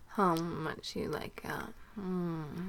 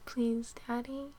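pleading; 3 semitones higher than usual. Acted. Pleading in whisper.

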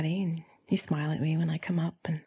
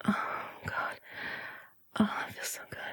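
whispery sigh of pleasure; hushed, swooning exhale; breathless pleasure; 5 dB quieter than usual. Acted. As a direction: breathe it out, nearly voiceless. Acted passion in the story.

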